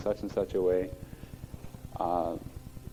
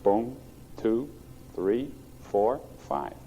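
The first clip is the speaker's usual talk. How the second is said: quick count; much slower than usual. Shown as a demonstration. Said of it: "Okay, just count".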